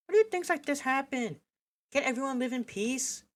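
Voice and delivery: high, pleading despair; high plea of grief after the stabbing; pained plea. Acted. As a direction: ask it close to tears. Character begins to tear up.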